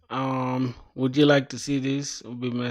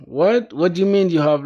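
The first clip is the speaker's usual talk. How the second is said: surprised; 7 semitones higher, 8 dB louder than usual. Real, not acted. Reacting to a surprising chat message.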